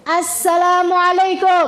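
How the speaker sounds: slow drawn greeting. Shown as a demonstration. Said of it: "Perhatikan, jawaban itu akan mirip sama pertanyaan".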